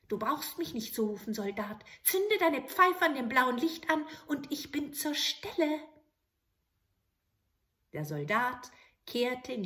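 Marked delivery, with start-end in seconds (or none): 0.1-5.8 high, eager little goblin voice; bow and ask for orders; little grey man. Acted. Grey manikin appearing to the soldier, eager.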